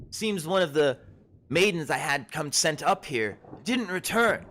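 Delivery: put-on high, loud, surprised old herbalist; a startled forager shooing travellers back; herb-picking woman. Herbalist warning the lost adventurers, high and loud. GM voices Ashleen.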